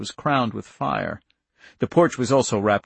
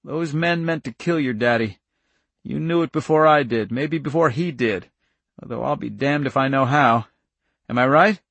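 slightly raised, insistent farmer's voice; firm countryman; 3 semitones higher, 4 dB louder than usual. Acted. Irv reasons with young Charlie, firm. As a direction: make the child face the facts.

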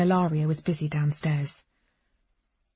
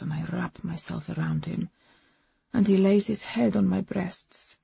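put-on gently accented woman lost in romance; foreign-accented Agnes, dreamy. Woman describing tender hours with her lover, hushed accented voice.

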